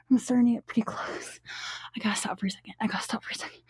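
breathless hushed whisper; whisper, holding back. Real, not acted. Trying to hold back climax.

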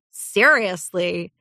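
slow, casual drawl; drawled agreement. Acted. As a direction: stretch it lazily. Fire Opal agrees.

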